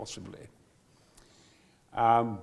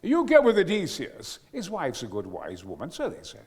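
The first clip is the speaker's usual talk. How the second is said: imitating Nigel. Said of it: "And Nigel had gone".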